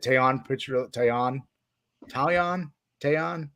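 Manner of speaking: "Taillon" tried several ways, TAI-yon then Tah-lee-on; trying out the name. Shown as a demonstration. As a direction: sound out "Taillon" each way. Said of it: "His name?".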